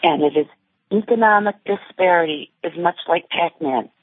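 muffled voice on a phone line. Real, not acted. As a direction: speak like through a covered phone. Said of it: "your phone is a little muffled".

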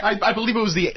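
laughing through the words. Real, not acted. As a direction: answer while laughing. Laughing while answering.

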